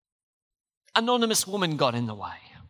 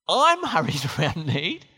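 rueful laugh; 3 semitones lower, 3 dB louder than usual. Real, not acted. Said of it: "I'm so convicted".

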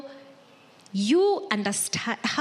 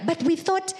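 higher-pitched, baffled questioning; puzzled wondering; 5 semitones higher than usual. Acted. Pastors wondering about a chosen group leader, mock bewildered questioning. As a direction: question it in mild, acted disbelief. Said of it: "and we wonder".

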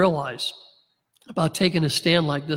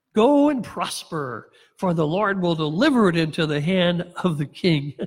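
sarcastic. Retold or imitated. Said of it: "he uses sarcasm here".

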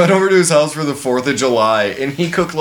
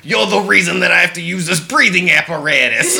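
put-on Brooklyn accent; 2 semitones higher than usual. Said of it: "some really heavy Brooklyn accent".

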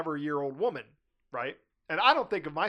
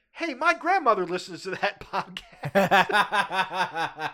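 nephew voice; 3 semitones higher, 6 dB louder, much slower than usual. Retold or imitated. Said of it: "my nephew goes".

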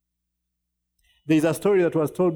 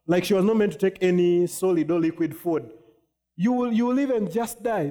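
higher, urgent mother scolding; mother warning her dying daughter off food, urgent and higher; worried mother; 4 semitones higher than usual. Retold or imitated. Preacher voicing a frightened mom scolding her daughter, higher and urgent. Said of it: "She's like".

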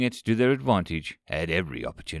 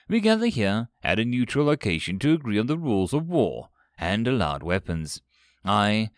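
lightly robotic, clear mediator voice; a formal android reading out rules; synthetic android voice. Acted. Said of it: "its synthetic voice ringing out clearly".

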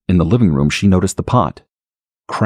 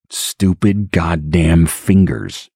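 cursing under breath; much slower than usual. Acted. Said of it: "cursed under his breath".

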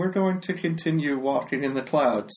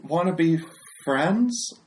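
high sweet voice; 5 semitones higher, 3 dB louder, slower than usual. Acted. Player greets creature sweetly.

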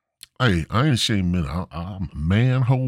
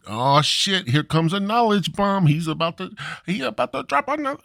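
mock Japanese accent; 11 semitones higher than usual.

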